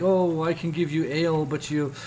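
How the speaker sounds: high, mock-scolding barmaid; tavern lady scolding. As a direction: play the fussy tavern keeper, voice jumping up. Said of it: "the tavern lady's like".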